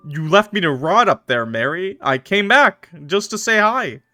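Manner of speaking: lightly voiced hurt husband; wounded zombie husband. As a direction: plead like a hurt ghost.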